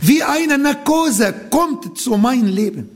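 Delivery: ordinary delivery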